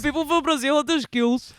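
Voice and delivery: high, laughing imitation of his accent; laughing mock accent. Real, not acted. Mocking cohost's accent while laughing. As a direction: echo his line through laughter.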